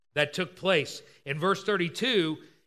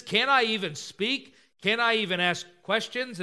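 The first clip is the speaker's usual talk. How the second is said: higher-pitched, mildly indignant questions; exasperated; 4 semitones higher than usual. Acted. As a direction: protest at being silenced. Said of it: "He's almost exasperated".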